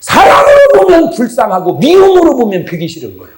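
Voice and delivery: 사랑으로 hit hard and loud, the line falling at the end; preaching shout. Real, not acted. Preacher urges the congregation to see with love, full-voiced shout. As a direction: proclaim it to the back row.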